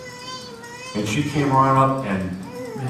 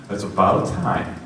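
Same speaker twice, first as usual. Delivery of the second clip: smug inner voice; slower than usual. Retold or imitated. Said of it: "inside I'm going".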